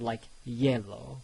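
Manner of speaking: "yellow" said slowly with a clear y at the start; y sound. Shown as a demonstration. Teacher modeling the y sound for students. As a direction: stretch out "yellow" to show the y. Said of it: "it will make a y sound".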